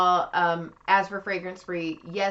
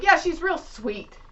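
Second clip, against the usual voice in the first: creepy client voice; 10 semitones higher, 6 dB louder than usual. Retold or imitated. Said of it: "And he's like".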